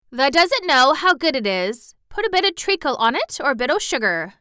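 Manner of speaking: Yorkshire maid urging porridge; coaxing Yorkshire maid. A narrator's reading. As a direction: tempt her with treacle. Martha coaxing.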